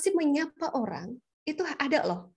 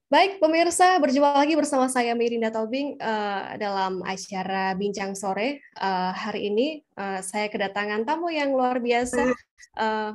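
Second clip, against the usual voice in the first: host opening dragged by filler "eh"; hesitant host demo; 2 semitones lower than usual. Shown as a demonstration. Host opening an afternoon talk show, hesitant with fillers. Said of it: "misal jadi seorang host gitu".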